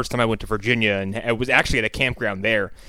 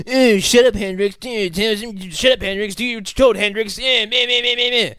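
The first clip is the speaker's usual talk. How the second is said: high, whining mock tirade; mock ranting; 9 semitones higher, 3 dB louder than usual. Podcaster mimicking a movie ranger's endless whining, mock ranting. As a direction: spout nonsense complaints in a raised, nagging mimic. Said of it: "a long, ridiculous verbal s-, vomitous spout".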